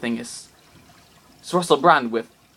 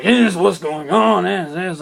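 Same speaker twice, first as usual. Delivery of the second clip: penguin villain voice; 3 semitones higher, 5 dB louder, slower than usual. Acted. Villain penguin Harold explains.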